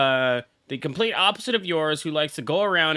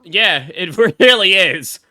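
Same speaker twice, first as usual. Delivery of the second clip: laughing through the words, slow and louder; 3 semitones higher, 9 dB louder, slower than usual. Real, not acted. Streamer cracking up at a game character's line, laughing. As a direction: agree while cracking up.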